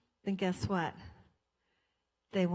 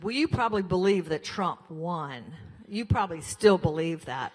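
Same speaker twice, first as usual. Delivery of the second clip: louder, mildly mocked accusing yell; retold yelling; 6 dB louder than usual. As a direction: imitate her yelling, raised volume at usual pitch. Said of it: "She's yelling at me".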